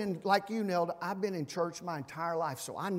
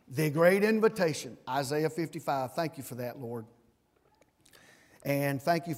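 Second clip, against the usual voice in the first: prayer; 3 semitones lower than usual. Acted. Pastor praying over the congregation, earnest prayer. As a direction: pray over the whole church. Closing prayer after sermon.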